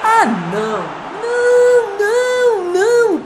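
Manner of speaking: drawn-out wailing no; anguished no. Real, not acted. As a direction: cry out in dismay. Goal conceded, crying out.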